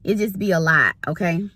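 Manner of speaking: talking around gum; words through a mouthful of gum; chewing gum. Real, not acted. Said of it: "I had some gum in my mouth".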